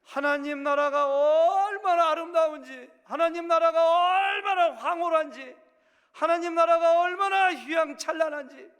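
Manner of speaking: high, loud, slow ecstatic preaching; rapturous shout. Real, not acted. Pastor proclaiming heaven's beauty to congregation, ecstatic shouting. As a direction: cry out the glory of heaven in rapture.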